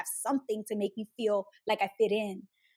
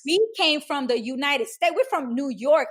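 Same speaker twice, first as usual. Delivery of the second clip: louder, slower proud boast; proud flex; 3 semitones higher, 6 dB louder, slower than usual. Retold or imitated. Telling friends about the summer trip home, a proud louder boast. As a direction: show off being from New York.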